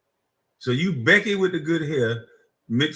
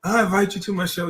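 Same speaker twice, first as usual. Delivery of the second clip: mock condescension; 6 semitones higher, 3 dB louder, faster than usual. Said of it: "condescending bitches".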